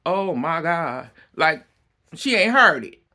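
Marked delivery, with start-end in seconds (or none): 0.1-1.6 mock dramatic fretting. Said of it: "you acting like".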